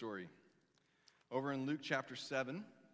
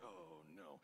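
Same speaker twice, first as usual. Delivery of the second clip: much softer and lower, a sinking oh no; dread; 10 semitones lower, 16 dB quieter than usual. Pretend. Listener bracing for a rebuke, hushed dread. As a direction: let the words fall away in dread. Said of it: "I'd be sitting there like".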